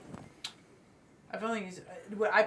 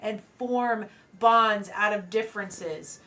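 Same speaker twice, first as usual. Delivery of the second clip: mildly raised, earnest rebuke to warring giants; projected speech. Acted. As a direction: lightly project an impassioned plea over the fight. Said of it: "I'll just naturally project the best way I can".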